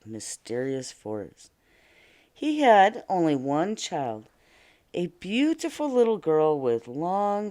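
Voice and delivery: lively read-aloud fairy tale voice; storybook narration. A narrator's reading. Teacher reading to the class in storybook narration. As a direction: tell it like a bedtime story.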